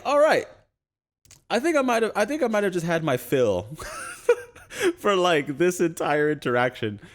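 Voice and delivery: half laughing, half crying in disbelief. Retold or imitated. Narrator overwhelmed by the gun talk.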